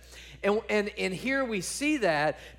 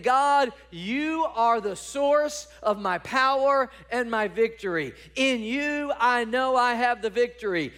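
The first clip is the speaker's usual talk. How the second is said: fervent declaration; 2 semitones higher than usual. Acted. Preacher voicing David's confident prayer.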